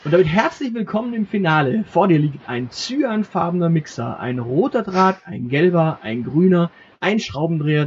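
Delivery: grand announcer voice for the finale; game master finale. Acted. Game master presenting the finale puzzle to the player, grandly announcing. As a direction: present the puzzle like a quiz host.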